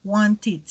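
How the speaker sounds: "wanted" with a soft final "id", said "wanti"; "wanted" con final suave como I; soft ed ending. Shown as a demonstration. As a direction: end "wanted" on a soft voiced "id" sound. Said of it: "terminan como si fueran con una I D".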